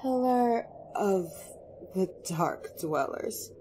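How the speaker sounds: haughty elf queen; scornful. Acted. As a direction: draw the title out with disdain.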